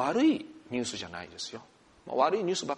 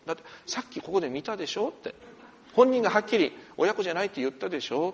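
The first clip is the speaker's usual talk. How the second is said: retold insistence; 4 semitones higher, faster than usual.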